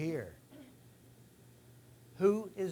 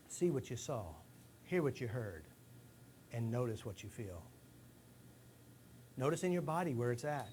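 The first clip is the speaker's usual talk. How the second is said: guided relaxation. Acted. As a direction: talk them gently into a memory. Leads a short memory exercise.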